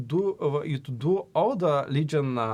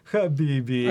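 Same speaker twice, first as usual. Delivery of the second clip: put-on Arab accent. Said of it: "to do his original accent".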